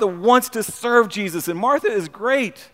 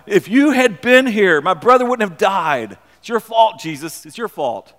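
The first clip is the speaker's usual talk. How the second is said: blaming Martha; 6 dB louder than usual. Acted. Martha blaming Jesus at Lazarus.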